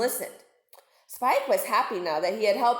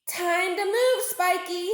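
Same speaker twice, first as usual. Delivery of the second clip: high, bright little narwhal; young narwhal voice; 8 semitones higher, slower than usual. Acted. Spike decides to flee, in a high voice. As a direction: chirp it in a high voice. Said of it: "he said to himself".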